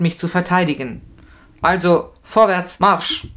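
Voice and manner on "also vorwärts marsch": loud barked order to march; policeman's call. A narrator's reading. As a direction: call him to move out, loudly. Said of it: "ruft der Schutzmann". (Schutzmann befiehlt dem Verhafteten laut den Abmarsch)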